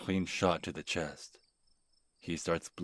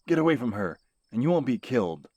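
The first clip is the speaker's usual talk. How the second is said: threatening; 8 semitones higher, 10 dB louder, faster than usual. Acted. Threatening attacker with gun.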